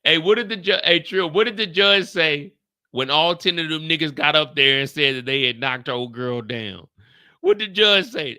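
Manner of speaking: loud question to Trill; calling out. Real, not acted. Asking Trill about the judge, a loud call. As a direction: shout the question across.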